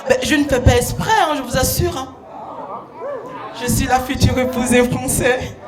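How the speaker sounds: comic put-on French accent; overdone accent of a Frenchman's fiancée; affected French accent. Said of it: "excusez mon accent".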